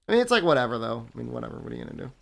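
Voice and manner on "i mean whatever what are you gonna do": yawning. Real, not acted. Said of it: "sorry if I'm yawning".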